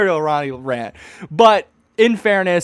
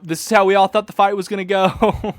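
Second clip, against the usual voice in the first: laughing. Real, not acted. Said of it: "laughing at clip".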